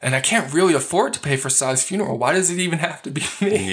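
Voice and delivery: mock-aggrieved whine, pitch climbing; imitating a put-upon man's protest; complaining. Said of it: "He's now complaining to the rabbi".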